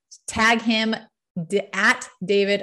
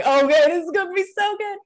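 much higher, louder, faster and thrilled; excited; 9 semitones higher, 4 dB louder, faster than usual. Retold or imitated. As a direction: gush it out with rising excitement. I'm like.

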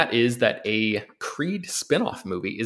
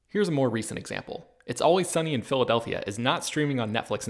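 smooth, scripted podcast ad read; sponsor ad read; 4 dB quieter than usual. Acted. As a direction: read the sponsor copy as a personal recommendation. Reads a sponsor ad.

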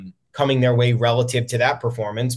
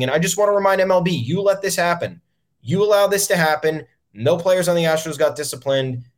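heated rant; 6 semitones higher than usual. Real, not acted. Podcaster scolding MLB for letting the Astros off, worked-up rant. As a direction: call the league out, voice climbing fast.

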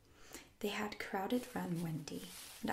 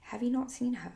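higher, louder, troubled question; 5 semitones higher, 8 dB louder than usual. A narrator's reading. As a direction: ask with growing concern. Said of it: "becoming troubled".

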